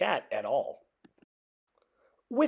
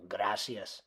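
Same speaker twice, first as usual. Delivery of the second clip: soft thanks; 8 semitones lower, 12 dB quieter than usual. A narrator's reading. Skipito replies.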